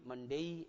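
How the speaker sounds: "मंडे" ending in day with an i-glide; English diphthong ending. Shown as a demonstration. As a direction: say "मंडे" as mun-DEI. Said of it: "ऐसे बोलना चाहिए".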